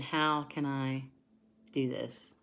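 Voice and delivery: low, deflated voice of a worried viewer; mimicking a skeptical, discouraged viewer; doubting viewer. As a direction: sound hopeless and doubtful. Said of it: "because you're thinking".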